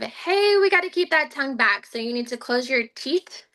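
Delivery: put-on bright coaching cue to a child; therapist cue voice. Shown as a demonstration. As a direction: coach a kid through it, upbeat. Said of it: "it's a lot of verbal cues of".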